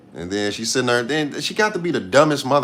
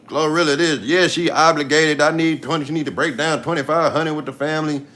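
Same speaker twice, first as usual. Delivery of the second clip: raised, sneering imitation of his demands; mocking Scarface Woods; 5 semitones higher than usual. Vlogger mocking Scarface Woods' demands, sneering mock voice. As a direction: mimic the greedy relative talk, pitched up. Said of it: "all that shit that Scarface Woods be putting out".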